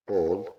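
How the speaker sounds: بول with a rounded "aw" vowel. Shown as a demonstration. Teacher reviewing at the board, A as O in بول. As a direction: say بول as "bawl", not with an "a". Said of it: "بتتنطق أو".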